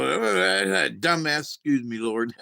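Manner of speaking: slow, laughing through the preacher's words; amused, slowed-down retelling; laughing quote of preacher. Retold or imitated. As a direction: chuckle out the insult then apologize. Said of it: "he's like".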